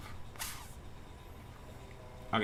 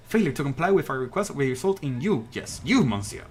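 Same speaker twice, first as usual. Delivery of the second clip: stern legal threat; 4 dB louder than usual. Acted. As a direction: lay down the law to a stubborn guard. Acted legal threat to guard.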